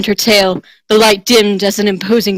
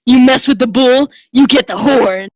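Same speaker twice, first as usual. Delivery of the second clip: challenge; 4 semitones higher, 3 dB louder than usual. Acted. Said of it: "uttering his challenge".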